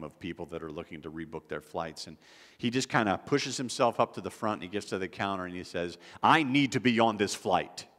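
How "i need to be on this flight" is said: louder, insistent demand; pushy demand. Retold or imitated. Man who pushed to the airline counter, demanding. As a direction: imitate an entitled passenger insisting.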